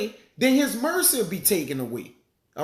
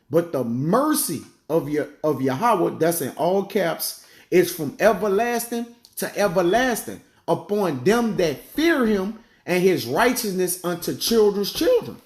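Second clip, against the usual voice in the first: scripture reading. Acted. Reads scripture aloud.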